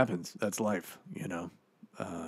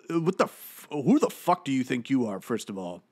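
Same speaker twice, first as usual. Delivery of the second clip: indignant outburst; 5 semitones higher than usual. Acted. Comedian as dead actor rants at a commenter, indignant. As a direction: voice jumps up in outrage.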